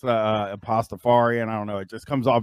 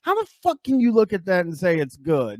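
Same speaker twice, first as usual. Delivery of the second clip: disgusted; 8 semitones higher than usual. Real, not acted. Disgusted at sandwich.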